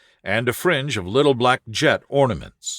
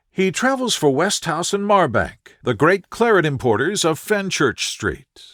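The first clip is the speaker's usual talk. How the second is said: put-on higher, earnest voice of a worried young woman; anxious young lady; 5 semitones higher than usual. A distressed visitor telling Holmes her fiancé vanished, higher and anxious. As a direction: plead your case, raised and anxious.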